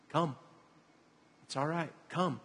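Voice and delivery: soft, coaxing, with pauses between; lightly acted quiet encouragement; gentle invitation. Jesus to Peter at the boat's edge, gentle invitation.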